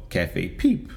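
put-on slow, hammy French accent; bad French accent. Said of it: "that's the worst French accent you'll ever hear".

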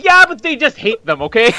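high, insistent mock exasperation. Husband retells answering puzzled wife, mock exasperated.

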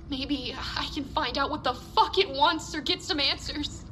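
usual speaking voice

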